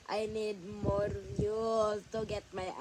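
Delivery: quacky cartoon duck voice; whining for views like a cartoon duck; Donald Duck voice. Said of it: "Donald Duck voice".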